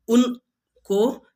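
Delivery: very slow and drawn out; stretched out slowly. Shown as a demonstration. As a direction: draw every sound out like a warm-up. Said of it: "चार, पांच बार बोल लिया करो". (बहुत धीरे, खींचकर)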